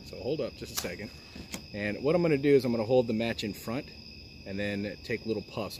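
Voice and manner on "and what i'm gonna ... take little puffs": talking around a cigar; cigar in mouth. Real, not acted. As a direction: speak with a cigar between lips. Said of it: "put the cigar in my mouth".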